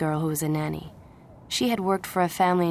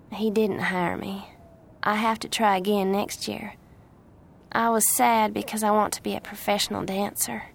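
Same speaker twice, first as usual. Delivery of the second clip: earnest Southern voice, lifting to a high question; eager Southern young woman; 3 semitones higher than usual. Acted. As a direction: confide your dancing dream in a Southern accent. Plays the Southern girl.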